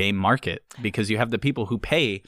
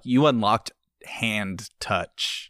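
mock game announcement; much slower than usual. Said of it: "And they're like".

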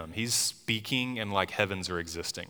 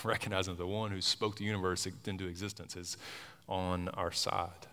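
soft reassuring; 5 dB quieter than usual. Acted. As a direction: settle into quiet comfort. Soft reassuring after climax.

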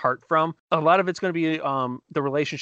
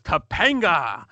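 drawn-out call; 3 semitones higher, much slower than usual. Retold or imitated. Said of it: "He goes".

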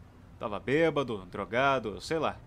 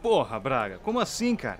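surprised; 3 dB louder than usual. Acted. Shocked at friend.

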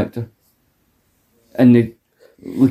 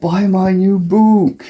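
high, slow, drawn-out celebrity parody; a singer; 7 semitones higher, slower than usual. Acted. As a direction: stretch it out in a high mock voice. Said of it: "sound like Bo Selector, a singer".

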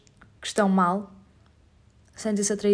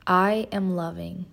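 spoken affirmation; much slower than usual. Shown as a demonstration. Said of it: "Say it with me".

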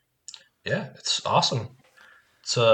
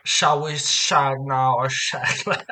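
slow, badly faked British swinger accent; muddled put-on accent; slower than usual. Cohost attempts the shag line, muddled fake accent. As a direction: draw it out in a wobbly fake accent. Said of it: "I don't know what accent I'm doing".

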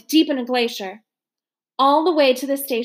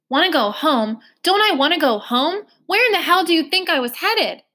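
rising higher, an incredulous inner snap; indignant retort; 6 semitones higher than usual. Acted. Gilly fuming silently at the officer, mildly indignant. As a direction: throw the question back in disbelief.

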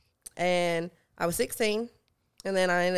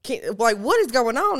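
mock-panicked call for help, building louder; retold freak-out; 2 semitones higher, 4 dB louder than usual. Niece calls her uncle for help, mock panic. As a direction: call out in rising alarm, acted. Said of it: "I'm screaming".

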